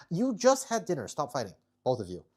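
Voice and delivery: sharp, loud, high scolding; exasperated pet owner scolding loudly; scolding the cats. Real, not acted. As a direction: tell the pets off firmly.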